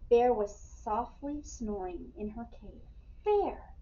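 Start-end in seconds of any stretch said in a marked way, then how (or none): 3.2-3.7 high, loud call to rouse a sleeper; crying out. A narrator's reading. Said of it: "cried Ladybug".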